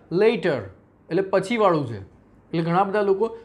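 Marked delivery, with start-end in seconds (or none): 0.1-0.6 લેટર with a short open e; correct letter. Shown as a demonstration. Teacher modelling the right લેટર for the class. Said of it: "ઈનું pronunciation અહીંયા લેટર થશે".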